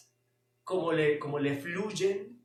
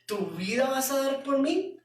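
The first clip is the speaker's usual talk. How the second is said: mock-incredulous, rising to higher on the last question; ironic; 6 semitones higher than usual. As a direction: tease Pedro with disbelief. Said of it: "irónicamente les dice". (tono irónico de incredulidad)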